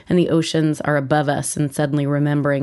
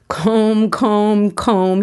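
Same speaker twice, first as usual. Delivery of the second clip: higher, louder gleeful repeat of comb; each comb higher and louder, egging her on; gleeful teasing; 5 semitones higher, 4 dB louder, much slower than usual. Retold or imitated. Son teasing mom again, higher louder gleeful chant. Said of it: "he laughs".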